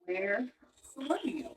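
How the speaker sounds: a quiet, flat demand; same energy. Retold or imitated. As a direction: calmly insist on an answer. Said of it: "I had the same energy".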